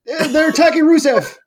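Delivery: cracking up, voice breaking high; laughing. Retold or imitated. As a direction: laugh through a flustered announcer quote. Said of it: "He's like".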